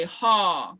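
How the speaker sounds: "ha" drawn out in a long open vowel; Kiowa agreement word. Shown as a demonstration. Teacher showing learners how to say agreement, drawn-out Kiowa word. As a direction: say "ha" long and even. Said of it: "they know how to say".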